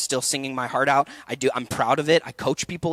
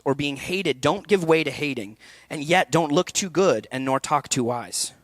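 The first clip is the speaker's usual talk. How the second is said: poem reading. Acted. Coach reading Kipling's poem to students, measured recital. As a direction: read it like a ballad's words. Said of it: "I'm gonna read it to you guys".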